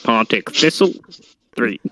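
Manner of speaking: measured score-reader impression; football results announcer. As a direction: announce the away team and score formally. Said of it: "read out the scores like that".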